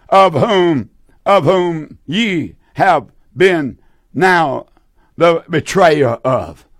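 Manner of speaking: slow, emphatic scripture reading with long pauses; deliberate preacher reading from the Bible. Acted. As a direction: proclaim the verse phrase by phrase. Reads scripture aloud to congregation.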